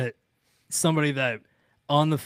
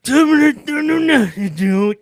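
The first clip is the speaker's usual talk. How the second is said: retold loud protest; 11 semitones higher, 8 dB louder, slower than usual. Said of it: "He's like".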